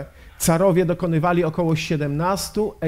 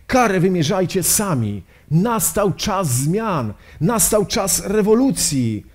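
rousing proclamation; 4 semitones higher than usual. Acted. Lenin's rousing revolutionary appeal. (podniosłe rewolucyjne wezwanie)

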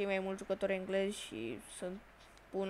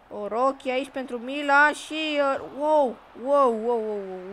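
excited wow; 3 semitones higher, 9 dB louder than usual. Real, not acted. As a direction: cry out as the shot flies. Chance on goal, shouts wow. (entuziasmat, strigând wow)

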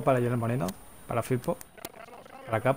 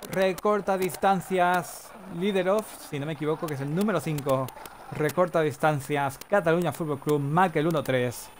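goal announcement; 2 semitones higher than usual. Pretend. Commentator announcing who cut the deficit, stretched announcer style. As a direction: proclaim the score to the crowd.

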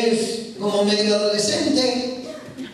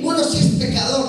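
bright exclamation; faster than usual. Retold or imitated. Preacher voicing a retreat-goer who comes back eager. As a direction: blurt it out like a happy convert. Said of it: "uno, uno dice".

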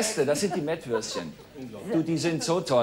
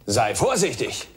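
slow warning voice; 6 semitones lower, slower than usual. Acted. Parody family, slow warning.

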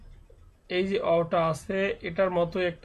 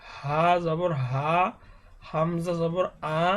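measured recitation of each letter with জবর, ending on an আ sound; teacher chanting the alphabet drill one letter at a time; steady classroom letter-by-letter chant; Arabic letter drill; slower than usual. Shown as a demonstration.

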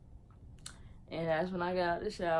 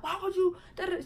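mother wailing; 13 semitones higher, 3 dB louder, faster than usual. Retold or imitated. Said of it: "she was wailing out".

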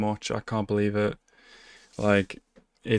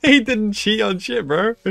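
higher, louder, laughing through it; laughing protest; 11 semitones higher, 5 dB louder than usual. Real, not acted. Viewer laughing while defending Momiji, high and loud. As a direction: defend him while still cracking up.

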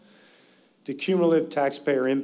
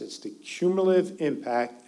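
"cumulative" lifted and weighted in "it's the cumulative impact"; stress on cumulative; 3 semitones higher than usual. Real, not acted. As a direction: underline "cumulative" so the audience hears it. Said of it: "I want to stress".

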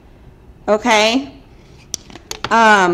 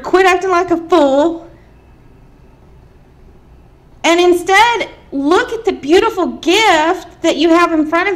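imitating screaming; 4 semitones higher than usual. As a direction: half-shout a grandma's urging. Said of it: "she's screaming at you".

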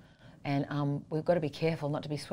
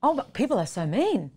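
retold shock, higher and louder; reliving the hurt of mean comments, raised and pained; reading cruel comments, a retold higher and louder gasp of dismay; 4 semitones higher, 4 dB louder, slower than usual. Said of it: "and I was like".

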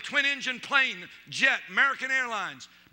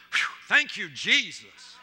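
teasing relief; slower than usual. Retold or imitated. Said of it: "just to be mean".

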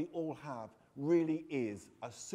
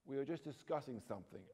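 softer, sheepish mumble; mumbled; 2 semitones lower, 6 dB quieter, faster than usual. Acted. Boy excusing the noise to his parents, soft mumble. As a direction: mumble it down to the floor. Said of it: "I mumbled".

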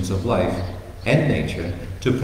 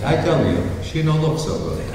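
put-on deadpan Italian accent; 3 semitones higher than usual. Vincenzo reminds Luigi of his warning, deadpan Italian accent. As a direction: shrug it off flatly, Italian accent. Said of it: "an Italian couple in southern Italy".

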